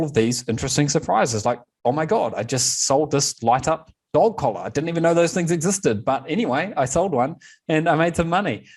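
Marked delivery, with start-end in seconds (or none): 1.8-8.6 higher-pitched, lightly acted amazement; mild mock astonishment; pleasantly surprised seller. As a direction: voice a seller's happy surprise at an unexpected sale.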